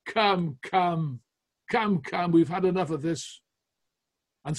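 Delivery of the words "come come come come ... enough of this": raised, scornful rebuke; scornful chiding. Retold or imitated. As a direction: scold them with contempt. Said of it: "he chided them scornfully".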